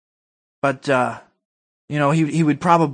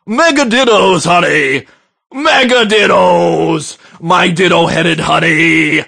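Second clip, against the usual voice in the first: Rush Limbaugh voice. Retold or imitated. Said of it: "let me do a Rush Limbaugh voice here".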